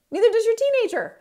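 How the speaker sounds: a sudden high, loud zinger; emphatic punchline. Real, not acted. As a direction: land the punchline hard. Punchline to audience.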